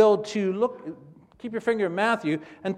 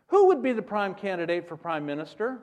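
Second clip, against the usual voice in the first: ordinary delivery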